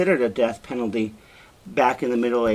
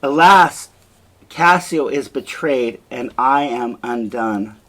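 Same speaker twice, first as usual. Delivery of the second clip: crying out; 6 dB louder, slower than usual. Acted. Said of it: "And she starts to cry".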